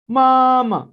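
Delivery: मामा loud, second मा short and light; neutral tone demo. Shown as a demonstration. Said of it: "जो आखिरी मामा का मा है ... शॉर्ट ... लाइट वे में". (मामा, आखिरी मा छोटा और हल्का)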